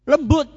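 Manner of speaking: "lembut" burst out high and loud for emphasis; stress on lembut. Acted. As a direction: hit "lembut" hard as the key word. Musa told to be gentle.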